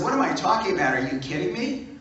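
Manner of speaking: incredulous yell. Retold or imitated. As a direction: shout it like you can't believe it. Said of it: "I began to scream at him".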